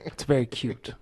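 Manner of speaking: lightly voiced teasing quote; Velveteen Dream. Co-host answering a crazy booking pitch, lightly imitated quote. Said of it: "in the words of Velveteen Dream".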